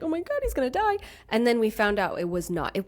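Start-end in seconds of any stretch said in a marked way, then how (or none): 0.0-1.0 retold panic. Retelling her panic over the dog.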